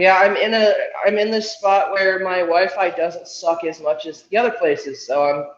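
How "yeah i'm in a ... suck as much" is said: speaking in an echoey room. Real, not acted. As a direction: echo like inside a well. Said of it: "You're very echoey".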